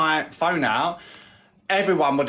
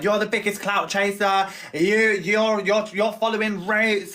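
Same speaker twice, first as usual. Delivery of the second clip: imitating mum yelling; 7 semitones higher, slower than usual. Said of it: "her mum was outside in the rain going".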